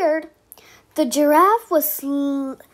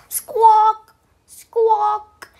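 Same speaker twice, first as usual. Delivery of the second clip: higher, louder parrot squawk; 6 semitones higher, 4 dB louder than usual. Acted. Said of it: "She said".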